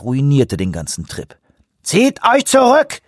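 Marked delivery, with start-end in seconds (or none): 1.8-3.0 slow, high, loud command to retreat; loud call. A narrator's reading. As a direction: call it out over the water, slowly. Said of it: "rief Grey Wolf". (lauter, langsamer Befehlsruf)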